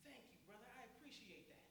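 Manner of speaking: soft, gently grateful reply; softly voiced, pleased singer; smiling thanks. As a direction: take it kindly, with a quiet smile. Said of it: "smiles and said".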